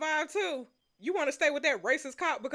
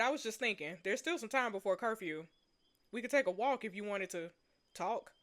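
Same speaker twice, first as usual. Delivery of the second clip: quiet, lower dialogue reading; story reading; 3 semitones lower, 6 dB quieter than usual. Acted. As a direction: read the tentative invitation softly. Reads story dialogue aloud.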